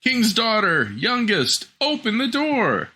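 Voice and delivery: high frog voice calling through the door; frog crying out. Acted. Frog at the door calling the youngest princess, high and insistent. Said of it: "knocked at the door and cried".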